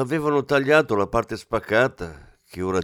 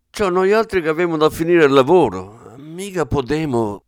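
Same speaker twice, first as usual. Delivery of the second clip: Venetian dialect; 6 semitones higher, 6 dB louder than usual. Acted. Plumber refusing in dialect.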